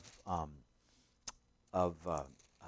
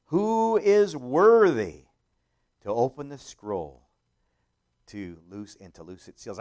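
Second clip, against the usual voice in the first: a big slow cry of who is worthy; loud proclamation; 14 dB louder than usual. A narrator's reading. Angel proclaiming to all creation, loud and slow. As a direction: call it out like a herald angel. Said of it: "proclaiming with a loud voice".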